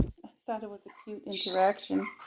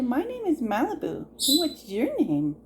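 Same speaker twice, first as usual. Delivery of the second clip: prompting; 4 semitones higher than usual. Shown as a demonstration.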